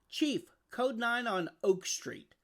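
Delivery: slow, high radio call. Acted. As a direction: announce the call urgently. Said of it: "called a firefighter".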